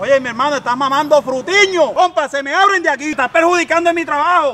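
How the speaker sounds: irate vendor scolding. Acted. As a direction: scold a rival who is on your turf. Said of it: "Amor, me está gritando".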